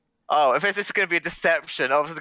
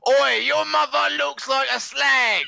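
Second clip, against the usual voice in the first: high, put-on cheeky insult; rat taunting; 11 semitones higher, 3 dB louder than usual. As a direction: jeer at the drunk with a sneer. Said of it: "uh, who looks a bit drunk and goes".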